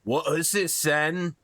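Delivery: lumbering troll guarding a bridge. Acted. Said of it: "and the troll says".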